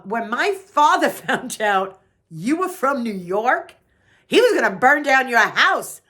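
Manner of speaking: put-on child's words told through laughter; chuckling through a child's threat; laughing retelling. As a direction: laugh while quoting the kid. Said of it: "I was told by one of the neighborhood children".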